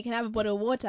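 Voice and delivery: "water" with a crisp, fully sounded T; "water" pronounced the Kenyan way, hard T. Retold or imitated. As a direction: say "water" with a clear T, not the Aussie flap. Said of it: "And I said it like that, with a T".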